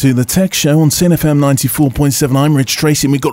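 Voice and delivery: smooth DJ station ident; radio DJ voice. Pretend. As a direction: read it like a radio DJ. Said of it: "Rich trained for years to speak like that".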